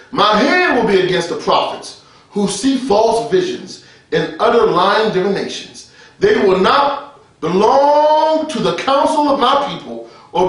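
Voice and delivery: slow, emphatic prophetic reading; declaimed scripture. Real, not acted. Preacher reading Ezekiel to the congregation, declaimed scripture. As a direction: proclaim it, stretching the key words.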